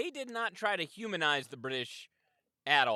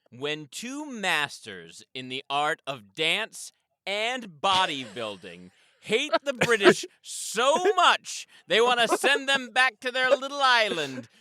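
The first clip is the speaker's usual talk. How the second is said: emphatic log line; 7 semitones higher, 5 dB louder than usual. Pretend. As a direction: sell it like a blockbuster voice-over, growing bigger each phrase. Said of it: "That was emphatic".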